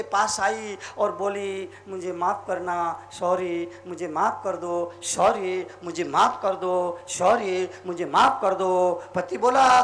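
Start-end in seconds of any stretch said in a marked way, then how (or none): 1.9-9.0 low, repeated mock plea; lightly acted contrite wife; tearful apology. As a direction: beg forgiveness in a lowered voice. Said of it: "आंखों में आंसू लिए".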